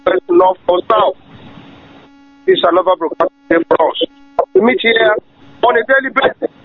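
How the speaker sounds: crackly phone call; speaking down a poor line; phone speaker. Real, not acted. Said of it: "your line is not clear".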